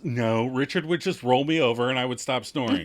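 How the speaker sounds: mock snap. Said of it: "And Monica snaps".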